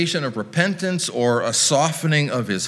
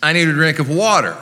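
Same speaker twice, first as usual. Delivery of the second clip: quick, raised Southern rich man's call; Southern accent; 4 semitones higher, 4 dB louder, faster than usual. Acted. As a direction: keep the Southern accent going, briskly. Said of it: "once you start it, you can't stop it".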